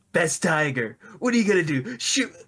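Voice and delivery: rising pitch, nasal mock voice; hammed-up nasal taunt to the tiger; nasal Mark imitation. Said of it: "That's what he sounds like".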